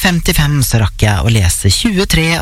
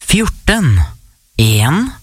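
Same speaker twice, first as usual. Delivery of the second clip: bingo caller; much slower than usual. Real, not acted. Calls out bingo numbers.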